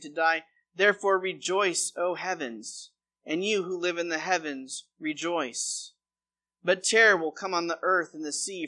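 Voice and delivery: measured read-aloud with pauses between verses; scripture reading. Acted. Pastor reading Revelation to the congregation, measured scripture reading. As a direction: read it out as a solemn Bible passage.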